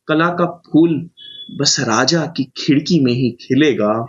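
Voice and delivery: measured poetry reading with deliberate pauses; poem recitation. Acted. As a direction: recite it line by line, letting each phrase land. (कविता पाठ, ठहर-ठहर कर)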